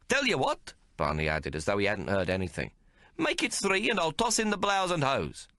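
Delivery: high, quick wheedling pitch; haggling tailor. A narrator's reading. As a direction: talk the price up fast.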